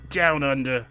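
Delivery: hammed-up fake Australian character voice; bootleg Pikachu. Streamer welcoming viewers down under, bad Australian character voice. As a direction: play a knock-off mascot attempting Australian. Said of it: "this is bootleg Pikachu here".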